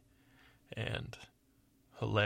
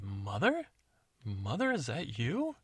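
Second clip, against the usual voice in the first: surprised; slower than usual. Acted. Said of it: "She said".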